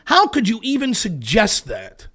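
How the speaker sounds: slow, mock-incredulous question; slow and sarcastic, like an offended pundit; mock indignation. Mimicking pundits scolding Trump supporters, mildly sarcastic.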